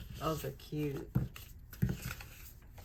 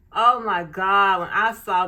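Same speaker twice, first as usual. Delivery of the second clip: real loud joy at a gift; excited exclamation; 2 semitones higher, 12 dB louder than usual. Real, not acted. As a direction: gasp it out, thrilled. Thrilled at the planner cover.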